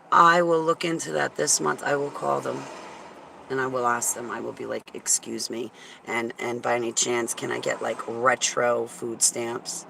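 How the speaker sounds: slight lisp on s sounds; talking with a lisp. Real, not acted. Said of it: "that lisp".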